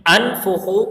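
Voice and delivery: teacher reading انفخو; Arabic example. Shown as a demonstration. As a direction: say انفخو clearly from its opening hamza. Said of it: "جیسے".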